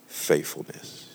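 slow, breathy whispered divine voice; slow hushed divine whisper; voice of the Holy Ghost. Retold or imitated. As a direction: hush it out like a voice from above. Holy Ghost's voice in retold story.

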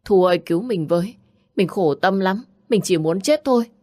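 mildly distressed cry for help; mock tearful plea. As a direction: plead in mild distress, voice lifting toward the end. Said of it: "Hoài khóc lóc". (giọng khóc lóc cầu cứu nhẹ)

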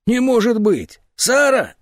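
put-on old man wailing for Sara; anguished cry. A narrator's reading. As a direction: cry out her name in despair. Old man grieves aloud.

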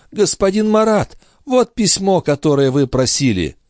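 put-on high, syrupy old crone; sugary old woman's voice. A narrator's reading. The concierge fawning over Marat in an old woman's voice. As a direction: lay on the sweetness like an old concierge. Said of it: "слащавым голосом, голосом старухи".

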